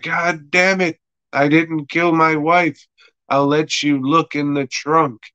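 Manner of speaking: high-pitched mock exasperation; exasperated protest. Pestered Davey defends himself to the cop, exasperated. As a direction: protest high, acting fed up.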